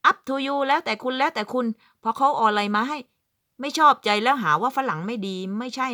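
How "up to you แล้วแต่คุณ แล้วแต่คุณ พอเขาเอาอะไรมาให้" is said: mock wife. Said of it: "ไม่ใช่บอกว่า".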